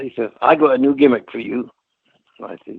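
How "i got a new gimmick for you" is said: lightly voiced lisping promoter; retold pitch in a put-on lisp; Dusty Rhodes. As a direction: imitate the boss with a touch of lisp. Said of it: "that's how he talks in his Dusty Rhodes voice".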